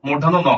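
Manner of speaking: "মূর্ধন্য ন" said distinctly, set apart from the sentence; standard pronunciation. Shown as a demonstration. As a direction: model the letter name "মূর্ধন্য ন" for learners. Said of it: "এটার উচ্চারণ হবে".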